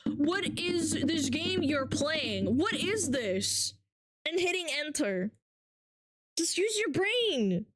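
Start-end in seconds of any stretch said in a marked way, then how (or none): 0.1-3.8 slow, drawn-out mocking question; lightly mocking slow chatter; mock dumb chatter. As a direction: mimic a clueless viewer slowly. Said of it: "takes you six seconds to type".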